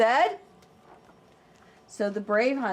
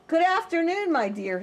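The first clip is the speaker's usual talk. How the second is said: a higher, smooth-talking wolf; sly wolf; 7 semitones higher, 4 dB louder than usual. Acted. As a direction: greet her like a charming predator. Wolf greets Red Riding Hood.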